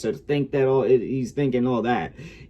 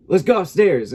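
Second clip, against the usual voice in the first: put-on higher, louder quote of a girl; girl's voice; 8 semitones higher, 7 dB louder than usual. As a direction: imitate a girl eagerly inviting someone up. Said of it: "and she says".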